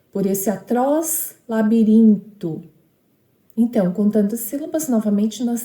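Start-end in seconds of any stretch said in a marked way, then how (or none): 0.1-2.6 tag. Shown as a demonstration. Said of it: "é até essa sílaba que nós vamos contar".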